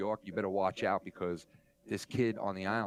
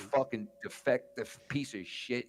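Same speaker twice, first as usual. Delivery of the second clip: mock insult. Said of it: "he was like".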